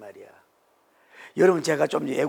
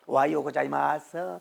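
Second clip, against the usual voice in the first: put-on Japanese accent Korean; 2 semitones lower, slower than usual. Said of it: "일본 사람이 흉내를 낸다고".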